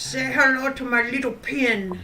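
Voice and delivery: Al Pacino impression. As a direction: growl it like Tony Montana. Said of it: "the Al Pacino of drawing".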